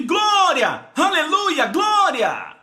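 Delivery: high exultant cries; Spirit-seized shouting. Acted. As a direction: burst out in praise as if suddenly overtaken. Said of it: "Somos tomados pelo Espírito".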